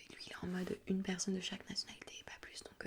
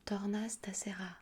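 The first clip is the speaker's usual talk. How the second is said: Italian phone script; 3 dB louder, slower than usual. Shown as a demonstration. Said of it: "ça sera plus en mode".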